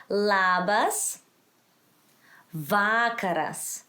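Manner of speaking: Labas rising, pause, slow VA-karas falling; accented first syllables. Shown as a demonstration. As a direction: teach Labas vakaras, stressing LA and VA. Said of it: "where to accent the word".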